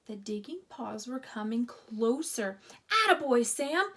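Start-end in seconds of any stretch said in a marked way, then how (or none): 2.9-3.9 high, loud cheer; shouting. A narrator's reading. Boys cheer the digging dog, loud shout. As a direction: whoop for the dog. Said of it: "shouted the boys".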